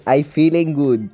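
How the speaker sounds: "I feeling good" said slowly in heavy French-accented English; drawn-out Franglais "I feeling good" with French vowels. Shown as a demonstration. A YouTuber jokingly mangles "I feeling good" in a French accent. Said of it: "Mon, mon anglais".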